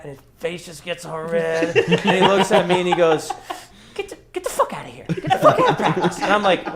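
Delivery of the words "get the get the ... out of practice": higher-pitched mock coach yell, half laughing; retold angry coach. Player retelling his coach throwing him out, mock yell. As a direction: chuckle through a higher-pitched retold blow-up.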